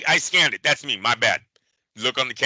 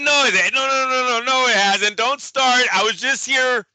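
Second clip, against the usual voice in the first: mock indignant protest; 5 semitones higher than usual. Arguing with cashier, retold.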